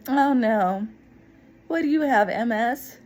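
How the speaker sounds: rude remark. Retold or imitated. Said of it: "rude as can be".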